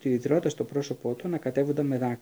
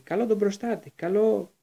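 raised voice casting a spell; spell cry; 6 semitones higher than usual. A narrator's reading. Boy casting a spell, raised voice. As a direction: call the spell out.

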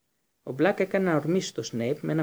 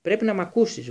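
groaning plea; 6 semitones higher, 6 dB louder than usual. A narrator's reading. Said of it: "βόγγιξε ο Μπλακ".

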